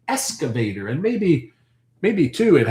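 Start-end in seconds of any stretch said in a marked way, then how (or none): 0.1-0.9 "excavator" said as "ess-ka-vay-ter"; S in place of X. Shown as a demonstration. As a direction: drop the k sound from the x in "excavator". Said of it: "he highlighted the S".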